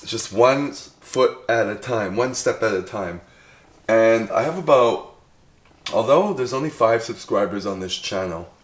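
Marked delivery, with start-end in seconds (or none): 3.9-8.5 talking while chewing gum. Real, not acted. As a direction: chew gum as you talk. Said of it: "sorry, I'm chewing gum at the same time".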